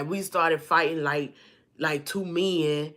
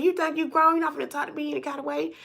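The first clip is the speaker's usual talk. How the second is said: higher, faster mock yell at the door; an angry mama impression, pitched up and rushed; retold furious mom; 10 semitones higher, faster than usual. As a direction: play the enraged mother demanding entry. Mama scolding through door.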